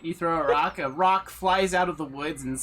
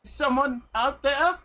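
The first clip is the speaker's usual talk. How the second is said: put-on higher, louder old woman calling out; 7 semitones higher, 4 dB louder than usual. Game master voices the old woman calling out into the woods. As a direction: call out like a nervous old woman. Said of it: "The old woman goes".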